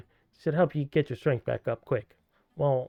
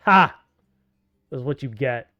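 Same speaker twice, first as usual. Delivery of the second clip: gloating laugh; 5 dB louder than usual. Real, not acted. Triumphant after prank.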